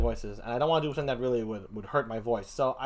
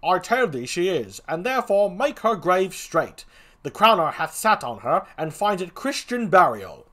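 lightly voiced comic gravedigger; a hint of a rustic Shakespeare figure; second clown; 3 semitones higher, 6 dB louder than usual. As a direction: answer firmly as the other clown.

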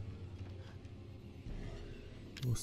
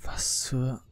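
whispering. Real, not acted. Horror game tension.

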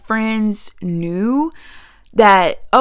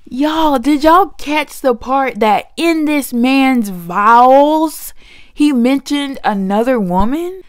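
louder, higher, slow and stunned; incredulous call-out; 4 semitones higher, 6 dB louder, slower than usual. Real, not acted. Vlogger calls out viewers about the groom's vows, loud and stunned.

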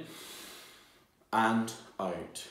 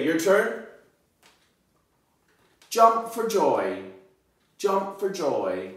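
excited, slow, high; 7 semitones higher, 6 dB louder, slower than usual. Acted. Excited modeling for children.

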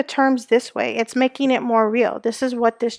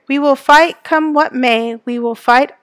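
a lightly voiced rallying politician; mild speechmaker's firmness; politician declaring. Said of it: "The politician declared".

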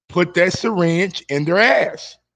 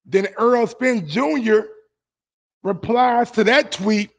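ordinary talk

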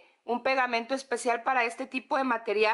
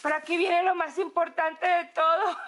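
said through a laugh; a giggle under "importante"; 3 semitones higher than usual. Real, not acted. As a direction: let the laugh break into the line.

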